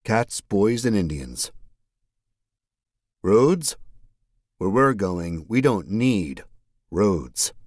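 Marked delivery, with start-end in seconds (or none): 3.2-3.8 incredulous rising question; high surprised roads; Doc Brown voice. Acted. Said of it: "Doctor Emmett Brown". 4.6-7.5 confident movie quote delivery; lightly voiced mad scientist; Doc Brown voice. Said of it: "Doctor Emmett Brown".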